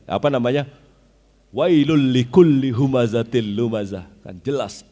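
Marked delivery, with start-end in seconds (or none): 1.5-4.1 firm recitation. Shown as a demonstration. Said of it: "intonasinya kan tegas sekali".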